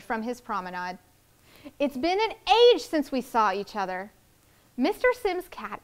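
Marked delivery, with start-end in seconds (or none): 1.8-4.1 gushing diva. Acted. Diva gushing at old friend.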